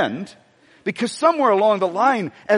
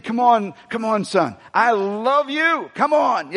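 lightly voiced cheering father, a bit higher; encouraging cheerleader; 3 semitones higher, slower than usual. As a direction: urge your son on, drawing out the love. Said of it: "God being the greatest cheerleader".

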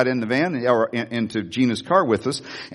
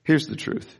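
gentle guilt-trip; 4 semitones lower, faster than usual. Retold or imitated. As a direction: draw him in gently. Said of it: "I said".

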